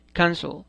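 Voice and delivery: Cancel with the first syllable stressed. Shown as a demonstration. Teacher showing learners the accent in Cancel, first-syllable stress. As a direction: say Cancel as CAN-cel. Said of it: "Tiene el acento en la primera sílaba".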